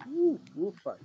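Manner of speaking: puffing out relief after the tense race; out of breath relief. Real, not acted. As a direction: blow out breaths of relief, winded. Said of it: "eu já tava suando na".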